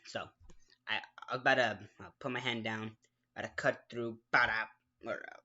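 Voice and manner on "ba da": loud mouth-made chop noise, ba-da; loud ba-da chop effect; knife chop sound effect. Retold or imitated. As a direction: punch out a chopping sound with the mouth. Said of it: "the sound effects are by me".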